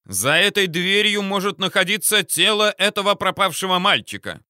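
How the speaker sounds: theatrical loud exclamation; hammy stage actor. A narrator's reading. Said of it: "театрально воскликнул".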